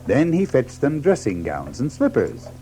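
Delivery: ordinary delivery, nothing marked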